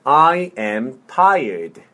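slow, word by word; slow model. Shown as a demonstration. Teacher modelling "I am tired" for repetition, slowly. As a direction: space out each word for a learner. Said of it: "천천히".

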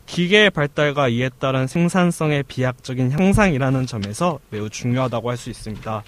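stiff, even robotic reading. Acted. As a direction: read it like a machine. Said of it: "까도남님의 로봇 연기력 한번 들어보도록 하겠습니다".

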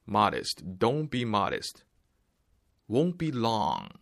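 ordinary talk

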